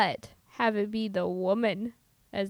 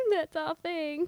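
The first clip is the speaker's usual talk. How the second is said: laughing; 3 semitones higher, 3 dB quieter, slower than usual. Real, not acted.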